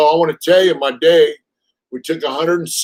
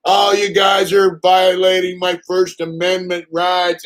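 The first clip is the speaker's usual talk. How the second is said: mock whiny tweaker; 5 semitones higher than usual. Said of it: "and he's all".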